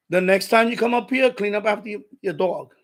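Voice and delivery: firm retold confrontation; firm warning. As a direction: lay down the rule to the neighbor. Confronting neighbor about dog mess.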